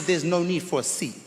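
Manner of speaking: puffed-up uncle. Retold or imitated. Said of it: "I said".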